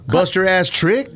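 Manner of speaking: put-on LA accent. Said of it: "What do people from L A sound like?".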